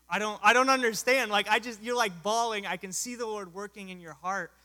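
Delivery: loud, high, incredulous outburst easing toward the end; baffled protest. Retold or imitated. Missionary to a crying man who refused, baffled protest. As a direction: burst out in disbelief, then ease down into pleading.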